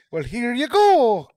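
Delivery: high, slow, mocking echo of the line; a high, drawn-out parody of the innkeeper; mocking repeat. Player mimics GM's innkeeper line.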